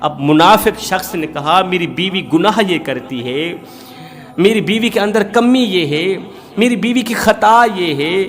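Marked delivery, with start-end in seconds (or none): 1.6-8.2 higher-pitched, resentful complaining; a hypocrite husband airing his grievance, pitched up and heated; indignant husband. Acted. Hypocrite husband complains about wife. (नाराज़ शौहर की ऊँची, शिकायती आवाज़)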